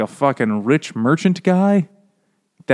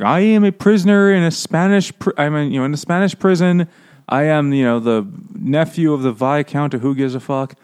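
scam-letter writer; 3 semitones higher than usual. Retold or imitated. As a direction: read out like a hammed-up begging letter. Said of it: "Prince of Nigeria thing".

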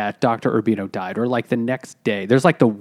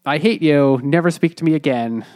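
mild mock yell, pitched up at first; retold scream; 4 semitones higher than usual. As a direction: imitate screaming at him without fully shouting. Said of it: "screams at him".

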